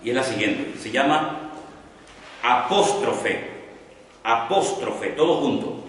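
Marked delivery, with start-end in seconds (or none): 2.4-5.1 "apóstrofe" drawn out slowly, syllable by syllable; "apóstrofe" spaced out for note-takers; dictated term. Shown as a demonstration. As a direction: dictate "apóstrofe" slowly as one word, just as it sounds. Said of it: "así como suena".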